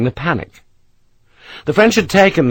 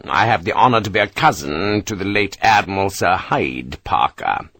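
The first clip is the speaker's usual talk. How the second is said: weary; 2 semitones lower than usual. Acted. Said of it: "He said the last in a weary tone".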